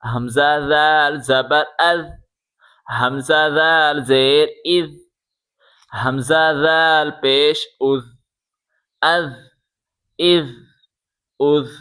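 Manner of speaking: از said softly, tongue between the teeth, a voiced th like in this; soft dhal with tongue out. Shown as a demonstration. Teacher drilling students on the soft ذ, tongue out, voiced th. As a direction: let از hum out softly over the tongue tip. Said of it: "زبان باہر نکال کے پڑھیں".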